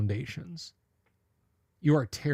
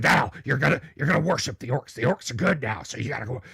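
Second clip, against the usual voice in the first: Alex Jones quoting invaders; 4 dB louder, faster than usual. Acted. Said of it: "I don't bust out the Alex Jones".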